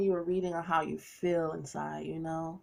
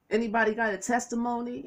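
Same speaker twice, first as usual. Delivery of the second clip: church preacher call; 4 semitones higher, faster than usual. Retold or imitated. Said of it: "as they say in the Baptist church".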